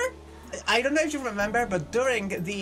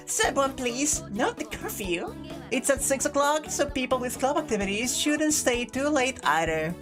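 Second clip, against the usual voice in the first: unhinged villain; 4 semitones higher than usual. Acted. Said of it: "give her a slightly unhinged voice".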